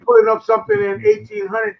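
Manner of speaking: high, loud challenge; angry shout. Real, not acted. Arguing with Freddie over fake census records, angry shout. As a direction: shout him down in disbelief.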